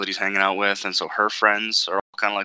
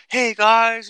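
put-on much higher, louder little-kid greeting; sweet little kid; 13 semitones higher, 8 dB louder than usual. Imitating the kid on VR, high sweet child voice. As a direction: chirp it like a sweet eight-year-old. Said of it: "He's just like".

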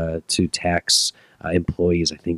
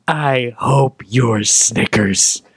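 spiteful; 6 semitones higher, 6 dB louder, much slower than usual. Pretend. Mock breakup parting shot.

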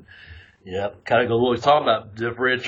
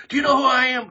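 mocking a self-important jerk, pitched up; arrogant quote; 12 semitones higher, 3 dB louder, faster than usual. Mocking the arrogant person who pulls that card, high and snooty. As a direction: sneer it like an entitled prick. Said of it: "I hate when people say".

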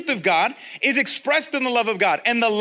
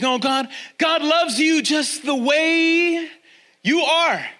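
sugary reassurance; 6 semitones higher, slower than usual. Retold or imitated. Shallow comforting quote.

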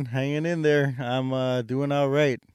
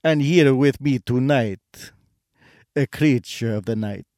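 vampire count voice. Acted. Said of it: "the Count from Sesame Street".

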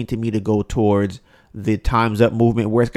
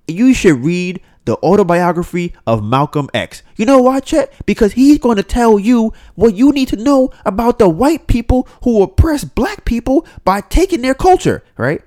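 preachy imitation rising to an indignant peak; lecturing black women; 5 semitones higher than usual. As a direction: talk down to Chet like you're schooling him. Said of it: "these black women are like".

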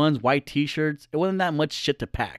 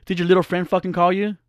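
attitude; 4 semitones higher than usual. Retold or imitated. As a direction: throw the question with attitude. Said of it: "she had the audacity to have a fucking attitude".

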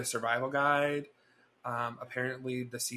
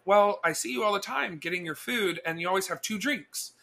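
higher-pitched imitation of a neighbor; lightly voiced older lady, pitched up; 6 semitones higher than usual. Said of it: "She's like".

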